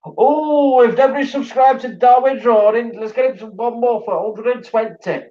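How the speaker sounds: excited. Real, not acted. Rallying viewers to subscribe.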